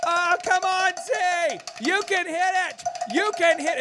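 high mock yell from the bleachers; hammed-up sports mom cheer. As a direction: shout it like a pushy baseball mom. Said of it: "cheering mom in the stands".

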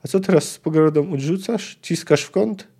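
lively audiobook reading of a novel; story narration. A narrator's reading. Narrator reading a Witcher passage to listeners, lively story reading. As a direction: read the scene aloud like an audiobook.

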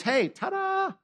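high sing-song ta-da; a showman's jaunty ta-da. Pretend. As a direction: pop it out like a magic reveal. Announcing Easter triumph.

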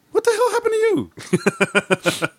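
wife seeing husband's wounds at four, slow shocked laughing. Retold or imitated. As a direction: play the stunned wife, drawn out. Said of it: "she looks at me like".

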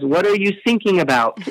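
put-on puzzled question in a mild German accent; German coast guard accent. Coast guard answers sinking boat, lightly put-on German accent. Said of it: "the German Coast Guard says".

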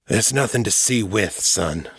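a hint of a weary older prisoner; frustrated old man. Silas answering through the wall, mildly frustrated. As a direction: let the frustration show, not at Jared. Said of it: "He sounded frustrated".

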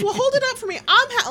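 high, fussing over the cookie; impatient old man. Retold or imitated. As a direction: demand it like a fussy old man. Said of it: "he goes".

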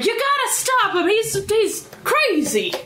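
mild acted holler, slowing on "crazy". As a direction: call out a warning, not at full volume. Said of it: "holler out to engineering".

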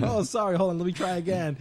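breezy mock apology; mock dictator. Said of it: "And he's like".

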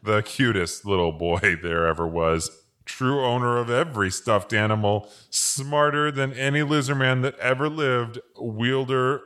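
laughing through it. Retold or imitated. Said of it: "I said".

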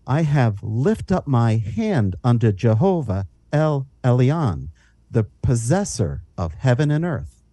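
measured, solemn King James reading; scripture reading. Acted. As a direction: read the verses with reverence. Reads scripture aloud.

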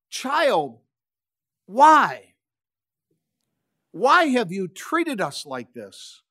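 put-on pleading with the lost child, voice breaking on why; anguished mother. Mary to her runaway son, anguished plea. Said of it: "Mary threw her arms around Jesus and said".

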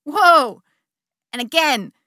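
loud, high whoa through a laugh. Retold or imitated. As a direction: burst out laughing mid-fall. Laughing ecstatic third fall.

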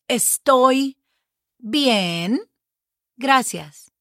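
word by word, pauses between; slow teaching model. Shown as a demonstration. Teacher models the answer for learners, slow and separated. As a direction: spell it out for beginners, "Estoy... bien... gracias".

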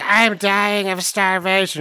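high, slow melodramatic moan; hammed-up despair; dramatic Suzanne. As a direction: overplay the hunger like a diva. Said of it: "and Suzanne's like".

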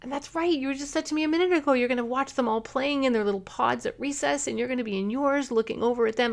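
put-on sit with the sad child and mirror their words kindly; gentle empathizing parent. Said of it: "and you say".

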